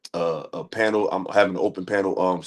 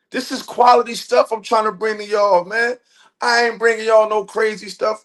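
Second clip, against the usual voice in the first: much higher, slower, drawn-out excitement; pitched-up giddy thanks to a supporter; hyped-up shout out; 10 semitones higher than usual. Real, not acted. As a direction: ride the thrill of the donation. Hyped thanks for donation, high pitch.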